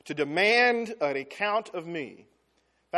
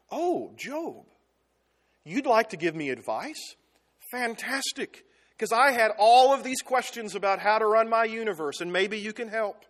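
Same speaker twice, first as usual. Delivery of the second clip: a hint of mock-sweet sarcasm, higher; sarcastic God; 5 semitones higher, 4 dB louder than usual. God mocking Job's advice, lightly sarcastic. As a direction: play it falsely eager, teasing. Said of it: "God being sarcastic".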